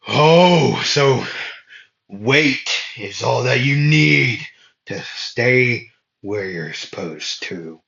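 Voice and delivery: lightly voiced smug villain; Dante taunting. Dante mocks Asta pinned in the ground, lightly voiced. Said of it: "they could hear Dante say".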